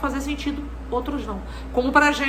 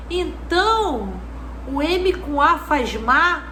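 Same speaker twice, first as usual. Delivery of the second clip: put-on child reasoning; slower than usual. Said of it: "E ela falou assim".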